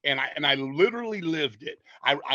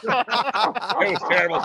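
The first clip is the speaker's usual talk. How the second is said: laughing through the words, louder and higher, slowly; 9 semitones higher, 7 dB louder, much slower than usual. Real, not acted. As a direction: crack up while telling the gross part. Laughs at his own mishap.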